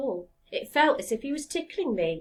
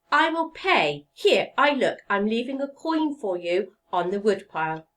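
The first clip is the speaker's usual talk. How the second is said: flustered woodcarver; 5 dB louder than usual. Acted. Woodcarver giving in to the talking log, flustered and loud. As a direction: give in in a fluster. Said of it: "he said, clapping his hands to his ears".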